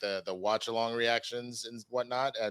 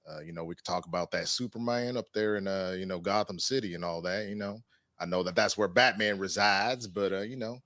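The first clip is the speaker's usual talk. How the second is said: a hint of a Southern cowboy voice; country voice. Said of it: "can he do his country voice?".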